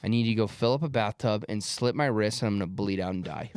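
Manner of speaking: deadpan, low-key retold request; dead serious. Golfer to his caddy after a bad break, dead serious. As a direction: say the absurd thing completely straight. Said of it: "dead serious".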